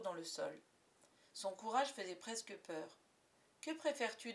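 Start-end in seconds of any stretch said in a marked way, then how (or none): 3.6-4.3 offhand question, a bit higher; casual tone. Acted. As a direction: toss it off lightly. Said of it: "d'un ton désinvolte".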